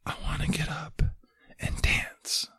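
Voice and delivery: breathy, voiceless whisper of a frail man. Retold or imitated. Husband with ALS whispers to his wife. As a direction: barely breathe the words out. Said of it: "whispers into Hope's ear".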